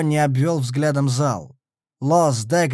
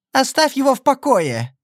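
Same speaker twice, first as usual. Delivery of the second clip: high, sharp angry cry; angry exclamation; 11 semitones higher, 4 dB louder than usual. A narrator's reading. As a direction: snap it out angrily, pitched high. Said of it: "сердито воскликнула Хейзел".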